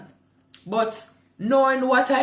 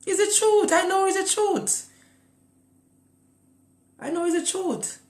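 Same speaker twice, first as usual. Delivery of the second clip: emphatic insistence; 13 semitones higher than usual. Real, not acted. Insisting on his claim.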